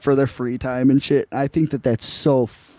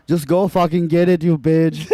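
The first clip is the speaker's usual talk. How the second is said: higher-pitched mock exasperation; mad scammer; 4 semitones higher than usual. Scammer ordering victim to get the card, imitated anger. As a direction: snap it as an imitated angry caller. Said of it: "They get so fucking mad".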